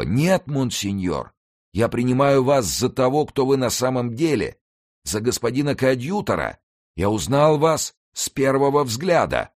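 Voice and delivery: нищий, намного выше рассказчика; смиренно, но твёрдо узнавая; голос нищего. A narrator's reading. Narrator voices the beggar. (нищий признаёт в госте коадъютора)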